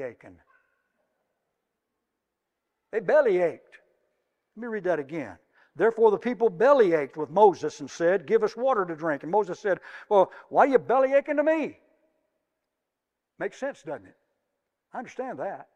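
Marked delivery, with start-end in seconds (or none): 5.8-11.8 loud, punchy scripture reading, Moses' line pitched higher; emphatic preaching. Acted. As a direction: boom out the verse with belly aching. Loud rereading with new word.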